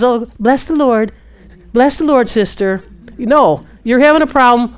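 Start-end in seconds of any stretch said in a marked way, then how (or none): 0.0-2.8 mock fake Christian. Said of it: "a fake Christian who just says".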